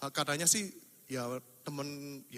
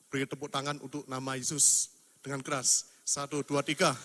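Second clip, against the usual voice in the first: rousing count; 5 dB louder than usual. Real, not acted. Leading applause count.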